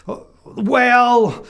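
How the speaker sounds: loud, high wolf fumbling for words; the wolf caught out, loud. A narrator's reading. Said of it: "replied the wolf".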